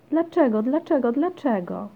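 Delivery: high, loud, insistent questioning; pestering child. A narrator's reading. Basia keeps asking mum about the dog, pestering. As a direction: nag with each repeat, high and loud.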